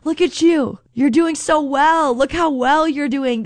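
high, tender, encouraging; loving praise. Pretend. Jesus praising the disciple, high and tender, not condemning. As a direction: lift him up with delight. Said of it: "This is the heart of Jesus".

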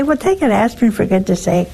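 quick, lightly mocked impatience; impatient brush-off. Mocking a friend who dismisses a headache, fast and curt. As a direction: rattle off a careless dismissal, fast. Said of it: "don't say".

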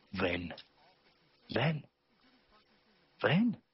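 beckon, each call rising in pitch and strength; building call to come. Retold or imitated. God calling in the storm, a building summons. God's repeated call in the dark.

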